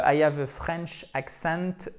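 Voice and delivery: put-on English with a deliberate French accent; slow, slightly French-accented English. Teacher mocking the curse of French learners, French-accented English. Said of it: "la malédiction du".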